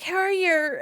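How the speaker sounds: high, loud Irish-tinged greeting; Jummy. Retold or imitated. Streamer imitating a friend's Irish accent kicking in, exaggerated Irish. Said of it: "Jummy's like".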